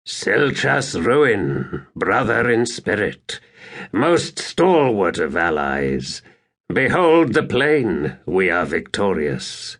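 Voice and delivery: a hint of a regal, slow greeting; lightly voiced proud warlord. Skabandari hailing his bloodied ally after battle, lightly voiced and slow. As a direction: greet your ally slowly, savouring the win.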